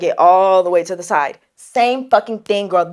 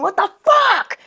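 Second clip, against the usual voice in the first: high-pitched reenacted yell; drawn-up outraged shriek; retold scream; 10 semitones higher, slower than usual. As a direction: cry it out high, in shock. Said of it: "and I just scream".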